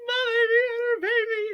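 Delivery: high, loud, giddy news; excited announcement. Retold or imitated. Calling her mum late at night, high giddy announcement. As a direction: burst it out like the best news ever. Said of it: "I'm like".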